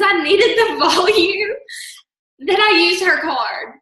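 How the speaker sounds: laughing through the words; can't hold back the laughter. Real, not acted. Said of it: "I can't stop laughing".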